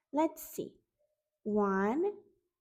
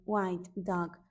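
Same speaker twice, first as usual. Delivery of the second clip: second "white dog" dropped lower and settled; low echo; 4 semitones lower than usual. Shown as a demonstration. Teacher echoing the animal name, dropped low. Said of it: "lower echo".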